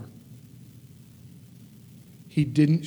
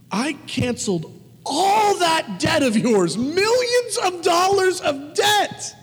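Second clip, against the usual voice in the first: high, loud, slow furious shout; angry rebuke; 12 semitones higher, 4 dB louder, slower than usual. A narrator's reading. Master shouting at the wicked servant, high and furious. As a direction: rage at the ungrateful servant. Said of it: "In anger".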